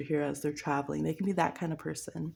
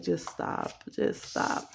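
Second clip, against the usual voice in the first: exasperated whisper; 13 semitones lower, much slower than usual. Pretend. Telling off an annoying person.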